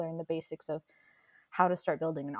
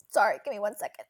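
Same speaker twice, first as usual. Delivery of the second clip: coughing after choking on water; choking on a drink; 4 dB louder, faster than usual. Real, not acted. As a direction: talk through a coughing fit. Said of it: "choked on my water".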